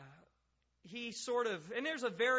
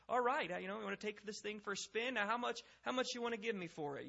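raised-pitch car dealer patter, quickening at the end; high-pressure salesman; 5 semitones higher than usual. Acted. Car salesman to a shopper, pushy patter. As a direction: assume the deal is already done. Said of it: "almost a high-pressure sales tactic".

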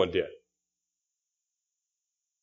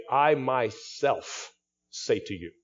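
slow, deliberate stress on "I myself", each word weighed; emphatic I myself; 4 dB quieter, slower than usual. Shown as a demonstration. Preacher showing the congregation an emphatic "I myself". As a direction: lean hard on "I myself" and take it slowly. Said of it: "It's emphatic".

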